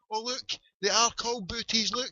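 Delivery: lightly acted discovery. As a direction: lightly act out spotting the name. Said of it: "I was like".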